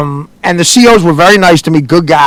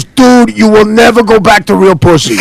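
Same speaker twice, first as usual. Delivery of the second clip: imitated inmate; 3 semitones higher than usual. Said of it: "He goes".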